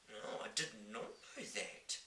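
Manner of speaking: put-on young girl voice. Sophie answers.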